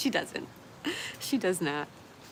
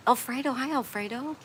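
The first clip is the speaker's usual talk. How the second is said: excited greeting; 8 semitones higher, 5 dB louder than usual. Real, not acted. Excited greeting of arriving viewer.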